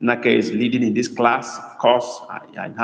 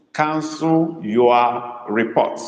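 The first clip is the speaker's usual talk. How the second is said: slow dictation, "cancel" held long; emphasis on cancel; slower than usual. Shown as a demonstration. Tutor repeating the sentence for students, "cancel" slow and emphasized. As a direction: draw out "cancel", then give the rest word by word. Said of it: "Emphasis is on cancel".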